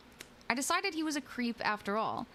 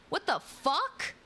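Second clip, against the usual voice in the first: slow, half-hearted retold yell; a touch of yelling at the stranger, drawn out; mild mock yell; 8 semitones higher, 3 dB louder, slower than usual. Woman retelling how she yelled at a creep, mild slow yell. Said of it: "After I yelled".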